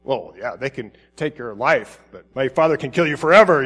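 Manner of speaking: a light hint of a harsh, dismissive Jesus; a slightly mean take on Jesus' words; mock mean. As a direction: toss it off coldly, half-joking. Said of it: "is he just kind of being mean here".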